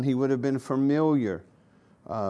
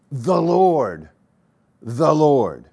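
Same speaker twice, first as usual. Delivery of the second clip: louder, declaiming the Lord's words from the text; booming proclamation; 5 dB louder, much slower than usual. Acted. Preacher reading God's proclamation, in a loud ringing voice. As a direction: proclaim it like the heavens speaking. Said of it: "and proclaimed".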